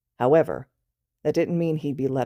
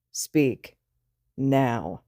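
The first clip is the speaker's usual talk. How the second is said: annoyed command; 3 semitones lower than usual. Acted. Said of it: "huffs in annoyance".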